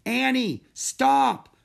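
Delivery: high, loud shout to halt; urgent, loud call. A narrator's reading. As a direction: call after someone swimming away. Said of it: "called Jack".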